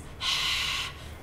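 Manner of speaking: breathy gasp as if mouth burns; hot spicy exhale. Shown as a demonstration. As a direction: huff out like after a spicy bite. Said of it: "you make like this".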